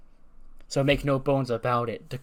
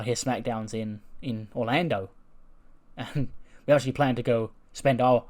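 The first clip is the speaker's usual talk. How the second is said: mock cocky heel promo, mostly own voice; imitating Grayson Waller. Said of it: "Grayson Waller storms in and goes".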